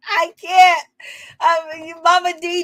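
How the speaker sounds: overcome, half laughing half crying; can barely get it out for laughing; laughing helplessly. Real, not acted. Host breaking down in laughter at the fight, laughing. Host cracking up over the drama.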